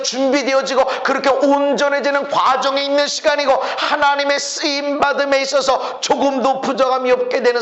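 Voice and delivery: driving, unbroken sermon delivery; preaching. Real, not acted. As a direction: press on urgently in a preacher's chant. Preaches at full force.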